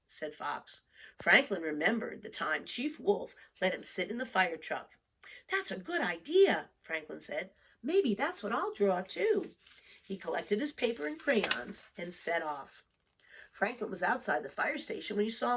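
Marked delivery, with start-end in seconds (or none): 5.5-9.5 put-on higher eager child voice; a child catching a new idea; Franklin's child voice. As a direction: lift it up eagerly.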